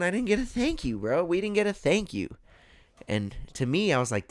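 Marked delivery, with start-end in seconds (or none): 0.0-2.3 much higher, mock-outraged whine; indignant complaint. Complaining to Holly about the teller, high and indignant. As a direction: whine like you were robbed of thanks.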